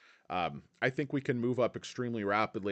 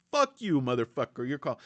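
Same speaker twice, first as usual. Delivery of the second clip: anger translator. Retold or imitated. CEO's inner anger translator cursing at the analyst, a mock outburst. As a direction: blurt the hidden insult like an anger translator. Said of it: "It's like that, um, Luther, the anger translator".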